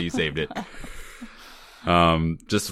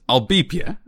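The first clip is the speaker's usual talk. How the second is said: imitating Busey; 8 semitones higher than usual. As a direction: toss off the line in a gruff cop voice. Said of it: "He says".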